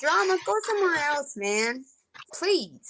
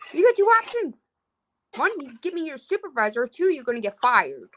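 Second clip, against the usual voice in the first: mock ultimatum; 5 semitones higher than usual. Reprising ultimatum to phone company.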